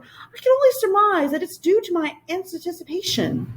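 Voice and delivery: high, quick and eager creature voice; a bouncy little creature popping in; high fluttery royal creature; Whangdoodle voice. Acted.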